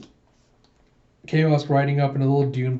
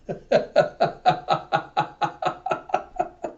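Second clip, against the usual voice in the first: long unvoiced chuckle; laugh; 4 semitones higher than usual. Real, not acted. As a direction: laugh in a steady breathy run. Teller laughs at the chase.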